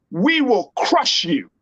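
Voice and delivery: slow, deliberate threat, each word weighed; slow menacing. Retold or imitated. Host paraphrasing the president's warning, slow and heavy. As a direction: lean in and say it slowly like a warning. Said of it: "he was saying".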